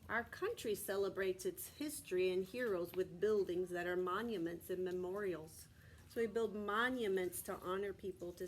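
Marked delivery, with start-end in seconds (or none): 0.1-5.7 steady read-aloud from the book; reading to children. Acted. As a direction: read the page aloud to the class. Reads picture book to class.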